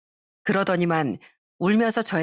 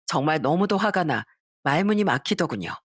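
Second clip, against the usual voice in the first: usual speaking voice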